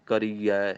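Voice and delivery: ਕਰੀਐ said with a clear final ਐ; careful teacher's model of ਕਰੀਐ; pronunciation demo. Shown as a demonstration. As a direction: say ਕਰੀਐ with the ending ਐ, not ਆ. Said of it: "ਇਹਨੂੰ ਕਰੀਐ ਹੀ ਕਹਿਣਾ ਹੈ".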